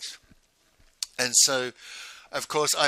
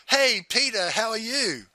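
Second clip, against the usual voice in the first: higher-pitched imitated friendly hail; bright greeting; 9 semitones higher than usual. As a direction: call out a hello to a friend, pitched up. Voicing friend calling out greeting.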